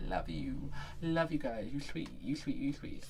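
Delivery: soft, affectionate mock cooing; hushed, playful gushing; acted cooing. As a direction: coo sweetly and softly, as if to adored customers. Cooing at happy retail customers.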